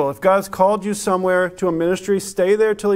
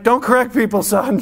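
higher, louder, half-laughing rebuke; mock-scolding dad; 6 semitones higher, 5 dB louder than usual. Father hushing his son who corrected a guest, embarrassed and half-laughing. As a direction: hush the boy, embarrassed.

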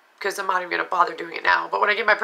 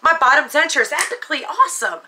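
mock quote; 7 semitones higher than usual. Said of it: "I don't know one person that says".

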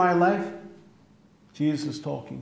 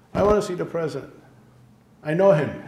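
quick, pushy "I know him" to the guards; mock confident visitor; 4 dB louder, faster than usual. Visitor insisting to White House guards he knows the president, brash. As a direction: brag your way past security, fast.

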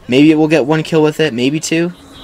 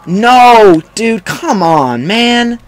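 loud, high cry of protest; exasperated yell; 9 semitones higher, 5 dB louder, much slower than usual. Real, not acted. Gamer hit by another bad death, exasperated yell. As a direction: plead in frustration, pitch jumping up. Dies again at the end.

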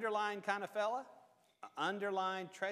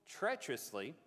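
"treacherously" held back, then stressed; emphasis on treacherously; 5 semitones lower than usual. Real, not acted. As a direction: pause briefly before a weighted "treacherously". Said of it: "I'm trying to emphasize that word".

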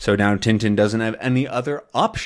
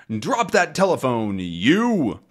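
put-on British accent; 4 semitones higher, slower than usual. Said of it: "he has a British accent".

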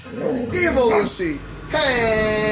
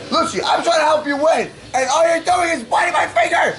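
exasperated scolding; 3 semitones higher than usual. Real, not acted. Scolding the biting dog.

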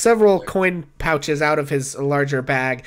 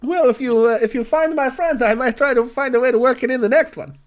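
higher, effusive non-player character voice; grateful, timid client; 9 semitones higher, 5 dB louder than usual. Acted. Client thanks adventurers for searching for his friend, grateful. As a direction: thank them humbly, admitting cowardice.

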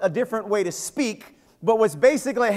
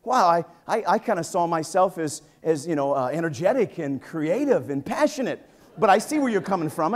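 deflated reply; 4 semitones lower than usual. Retold or imitated. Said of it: "And I'm like".

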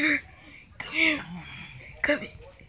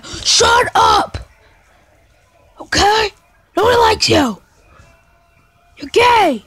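higher, snappy mock insult; mock taunt; 7 semitones higher, 3 dB louder than usual. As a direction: sneer it like a playground taunt. Kids taunting each other.

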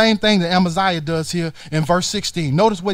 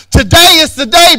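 loud call; 9 semitones higher, 11 dB louder than usual. Acted. First call, at full force.

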